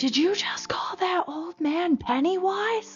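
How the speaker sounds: very loud. Recounting an outing near an old man on a bike, retelling a very loud question. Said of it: "he was like very loudly".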